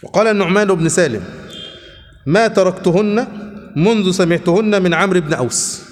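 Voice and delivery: slow, measured classical Arabic reading; formal hadith reading. Acted. Teacher reading hadith text to his class, slow formal reading. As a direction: read the chapter out slowly, phrase by phrase. Reads narrators' chain statements.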